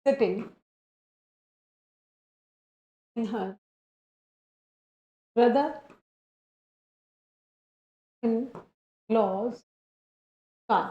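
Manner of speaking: each word set apart by long pauses; slow word by word. Shown as a demonstration. Teacher dictating to the class, slowly word by word. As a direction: dictate it one word at a time. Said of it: "she was, मान लो".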